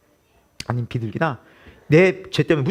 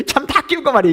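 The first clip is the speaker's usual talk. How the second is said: mock grumpy scolding; 10 semitones higher, 3 dB louder than usual. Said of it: "막 화를 내면서".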